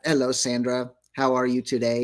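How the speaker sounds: monotone mechanical robot. Pretend. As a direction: stiff robot greeting voice. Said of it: "why are we talking like robots".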